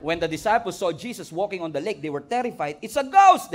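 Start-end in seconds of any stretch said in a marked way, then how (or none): 2.8-3.5 a high, loud frightened cry; cried out in fear. Acted. Disciples on the lake crying out, frightened and loud. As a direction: yell it like you just saw a ghost. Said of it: "they cried out in fear".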